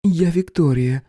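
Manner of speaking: slow, sultry introduction; low chesty woman's voice. Acted. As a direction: purr her name. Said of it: "низкий грудной голос".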